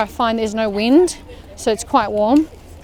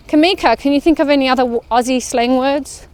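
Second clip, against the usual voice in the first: calling out; 3 semitones higher than usual. Real, not acted. Calling to daughter on walk.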